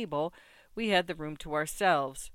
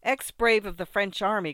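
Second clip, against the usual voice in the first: wildly excited, a bit louder; mad exhilaration; 4 semitones higher, 6 dB louder than usual. Acted. Tipsy narrator to the old soldier, wildly excited. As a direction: cry it out giddy and drunk. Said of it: "in a mad state of exhilaration".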